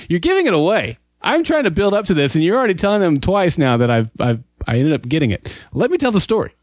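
high, mock-indignant protest; excited protest. Real, not acted. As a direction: complain he's spoiling the story. Protesting co-host spoils story.

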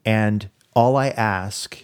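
tender plea. Retold or imitated. Soul's tender plea retold.

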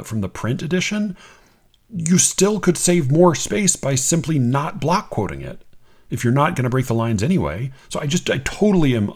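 usual speaking voice

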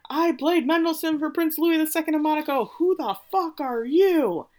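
high, haughty grande dame, slowing on the insult; Ondine's voice. Retold or imitated. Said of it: "now all of a sudden she's Ondine".

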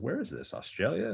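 retelling his own baffled reaction; wondering where the club is after the tweet; puzzled surprise. Retold or imitated.

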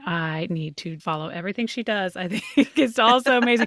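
giddy, laughing gush; gushing fan. Retold or imitated. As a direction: gush like an excited new fan. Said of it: "like, going".

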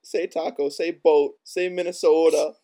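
singling out each word, playfully insistent; imitating teasing requests. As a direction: mimic people pestering for the funny words. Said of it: "They always ask me to".

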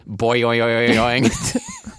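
springy, bouncing "boing-oing-oing"; mock cartoon spring noise. Joking to co-host about the bartender's message, cartoon boing.

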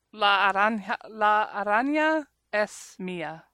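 Spanish with a Southern accent; halting Spanish from a Southern US speaker; Southern-accented beginner Spanish. Real, not acted. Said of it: "in my stupid Southern accent".

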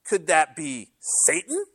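high prim falsetto "Oh", slow sanctimonious "could that be Satan"; mock the self-righteous church lady, high and prim; imitating the Church Lady sketch, high and slow. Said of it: "in his little church lady voice".

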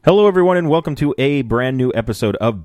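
high, loud host greeting; bright show opener; cheery host intro. Shown as a demonstration. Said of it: "let me do that again".

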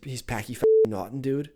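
name said in a Boston accent. Shown as a demonstration. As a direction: drop the r's like a Bostonian. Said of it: "say with a Boston accent if you can".

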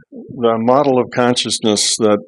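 "model" leaned on, drawn out slowly; slow down and weight the word "model"; stress on model. Real, not acted. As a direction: put the weight on "model" as you explain. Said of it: "But I emphasize the word model".

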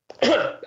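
sudden choking cough. Real, not acted. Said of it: "sorry, choking".

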